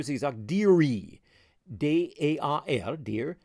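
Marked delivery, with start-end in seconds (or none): 0.5-1.2 sarcastic dearie. Shown as a demonstration. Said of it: "ein bisschen sarkastisch gemeint".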